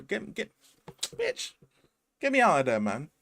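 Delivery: high, frantic cry to get out; hammed-up trapped commuter; mock panicked passenger. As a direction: squeal to be let out.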